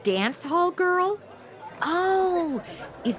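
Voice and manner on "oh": laughing oh. Acted. Laughs at dance hall girl.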